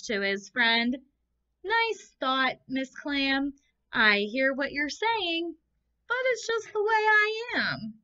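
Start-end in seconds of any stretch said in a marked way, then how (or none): 1.6-7.9 higher, resigned fish voice; glum fish reply. Acted. Fish answering the clam, higher and resigned. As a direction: shrug it off like a sulky fish.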